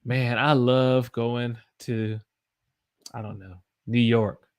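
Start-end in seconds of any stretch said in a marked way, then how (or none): 0.0-2.2 slow, with "love" drawn out; stretched Southern "love"; Southern held love. Shown as a demonstration. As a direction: hold the vowel in "love". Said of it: "You hold the".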